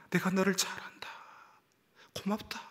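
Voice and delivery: soft whispered consolation; tender whisper. Acted. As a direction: whisper it like holding someone close. The Lord's embrace, voiced.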